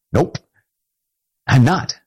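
a light Minnesota-accented Nope, I'm not. Shown as a demonstration. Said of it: "As we say up in Minnesota".

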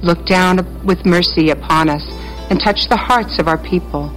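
ordinary talk, nothing marked

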